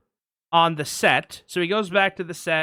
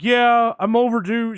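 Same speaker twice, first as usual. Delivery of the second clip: retold excited line; 6 semitones higher, 5 dB louder than usual. Acting out movie dialogue in recap.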